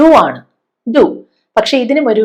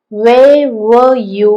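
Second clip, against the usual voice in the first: slow stretched demo; much slower than usual. Shown as a demonstration. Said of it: "എനിക്ക് ചോദിക്കേണ്ടത്".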